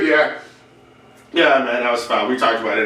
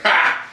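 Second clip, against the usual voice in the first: single higher mock "ha"; imitated lone laugh; 4 semitones higher than usual. Lone comic laughing at the back of a silent room, imitated laugh. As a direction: let out one solitary mock laugh. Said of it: "I'm the only one making sounds".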